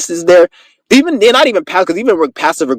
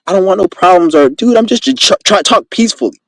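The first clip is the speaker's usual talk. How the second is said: mildly scared, higher toward the end; pretending scared; 3 semitones higher than usual. Showing how to fake out an aggressor, mildly scared. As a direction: act a little scared and placating. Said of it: "you pretend like you're scared".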